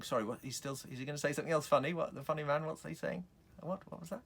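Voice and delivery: mock bewildered murmur, rising in pitch; confused audience member. Puzzled audience leaning forward, voiced.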